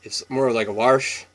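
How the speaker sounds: "Warsh" with a light r; slight R in wash. Shown as a demonstration. Vlogger showing viewers the old timers' Washington r. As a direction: slip a faint r into "Warsh". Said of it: "It's not like how they say it in the South".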